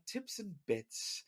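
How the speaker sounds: slow, soft title announcement; drawn-out show title. Shown as a demonstration. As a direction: stretch the show name out. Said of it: "a special bonus episode that we like to do called".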